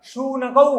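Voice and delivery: शूनकौ with a clear "sh" onset; palatal sha. Shown as a demonstration. Teacher showing children the sound, palatal sha in शूनकौ. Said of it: "ताल पे श का उच्चारण कीजिएगा".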